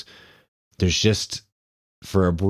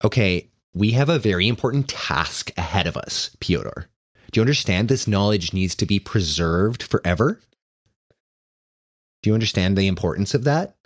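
higher, earnest lecturing; fussy zealot; 4 semitones higher, faster than usual. Acted. Ian lecturing Pyotr on sacred books, fussy. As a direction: press the importance, prim and intense.

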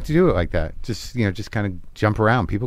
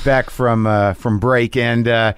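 radio host voice. Pretend. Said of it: "I'm still in character".

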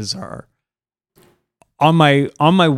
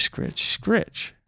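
soft breathy scritch, pitched higher; whispered scratching; 8 semitones higher, 7 dB quieter than usual. Retold or imitated. Imitating scratching at door.

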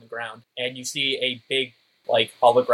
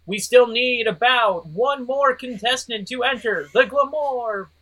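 booming announcer; 10 semitones higher, 5 dB louder than usual. Acted. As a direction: boom it to the crowd. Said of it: "a booming voice go".

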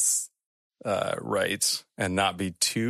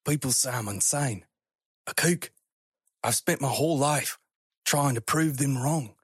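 higher-pitched, halting plea; earnest, raised voice, stumbling; pleading explorer; 5 semitones higher than usual. Acted. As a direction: plead with the creature.

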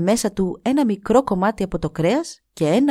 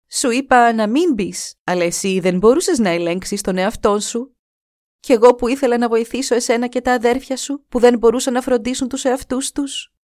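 συγκρατημένο κλάμα, ψηλότερη και αργή αρχή; παράπονο με ελαφρύ κλάμα στη φωνή; κλαίγοντας; 3 semitones higher than usual. Acted. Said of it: "είπε κλαίγοντας". (η σύζυγος κατηγορεί κλαίγοντας τον άντρα της, λίγο ψηλότερα)

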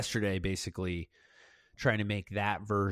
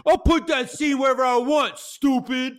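cool inner voice; 12 semitones higher, 8 dB louder than usual. Retold or imitated. Filmmaker voicing his cool side shutting down doubts, tough. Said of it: "Cool Zay was like".

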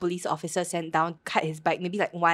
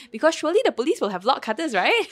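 high, loud, giggling through the punchline; laughing through the words; 6 semitones higher, 6 dB louder than usual. Retold or imitated. Friend pitches a cheeky plan, laughing loudly. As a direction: crack up while pitching the silly plan.

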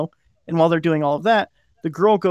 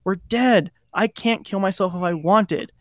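eerie triumph; 4 semitones higher, slower than usual. Retold or imitated. Stepmother after the misfire.

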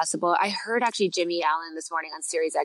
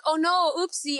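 sweet mock dismay; 8 semitones higher than usual. Mom's fake sweet reaction.

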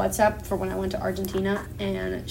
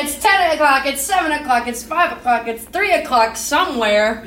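high, loud announcer voice; announcer intro; 4 semitones higher, 4 dB louder than usual. Pretend. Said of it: "I'm using that as the intro now".

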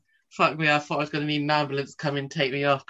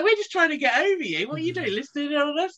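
mock-startled complaint; 11 semitones higher than usual. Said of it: "We were like".

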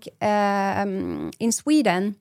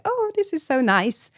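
super happy; 8 semitones higher than usual. Retold or imitated. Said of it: "you would be super happy and be like".

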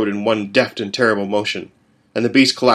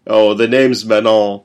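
slow, louder resonant introduction; lightly voiced sonorous demon; low and sonorous; 6 dB louder than usual. A narrator's reading. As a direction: savour your own name. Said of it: "his voice low and sonorous".

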